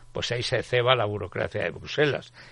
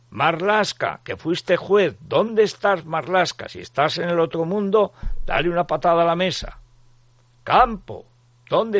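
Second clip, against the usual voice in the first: higher, loud séance summons; voice from beyond the grave; 7 semitones higher, 7 dB louder than usual. Pretend. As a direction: summon the spirits like a medium. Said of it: "voz de ultratumba". (voz de ultratumba de médium)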